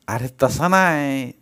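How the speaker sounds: covering up. Acted. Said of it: "सारवासारव करायला लागला".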